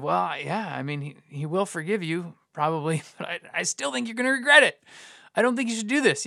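hesitant, halting reply; fumbling response. Retold or imitated. Pastor recalling his awkward answer to someone choosing sin, fumbling. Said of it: "just kind of fumbling through this response".

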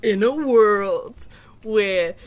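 slow trailer voice; movie narrator voice. Pretend. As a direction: announce it like a film trailer, slowly. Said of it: "do movie narrator voice".

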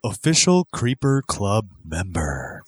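measured, theatrical membership announcement; promo announcer read. Acted. Host welcomes new members to the club, promo announcer read. Reads the club's membership tiers.

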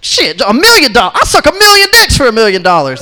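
high, loud, rushed mock eagerness; imitating an overkeen volunteer; too eager. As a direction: jump at the offer, speeding up. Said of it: "he got way too eager".

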